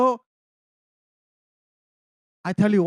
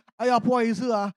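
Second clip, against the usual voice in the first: flustered apology. Retold or imitated. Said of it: "the only word I know".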